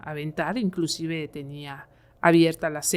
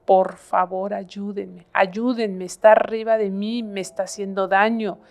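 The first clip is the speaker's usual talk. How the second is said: urgent plea, raised in pitch and volume; retold desperate cry; 4 semitones higher, 5 dB louder than usual. Possessed woman begs the family for help, desperate cry. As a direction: imitate a woman crying out for rescue. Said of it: "la voz de ella gritaba".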